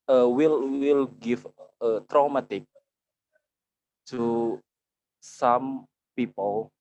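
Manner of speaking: speaking up to be heard, haltingly. Real, not acted. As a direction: raise your voice a little for the listeners. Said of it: "raise your voice".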